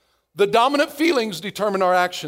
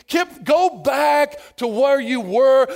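slow mock warning; slower than usual. Voice of logic addressing Kip.

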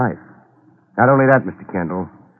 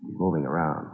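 low, hushed voice; barely above a whisper; 3 semitones lower, 10 dB quieter than usual. Acted. Waiting in the dark room.

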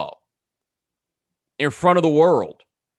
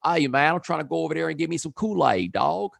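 bad L.A. accent; 2 semitones higher than usual. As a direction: put on a rough L.A. accent. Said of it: "the worst L A accent I ever heard".

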